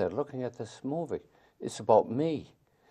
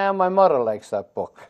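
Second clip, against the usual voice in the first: higher, louder offhand passer-by; street fan; 7 semitones higher, 10 dB louder than usual. Retold or imitated. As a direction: toss it off like a casual stranger. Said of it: "You see these characters in the streets".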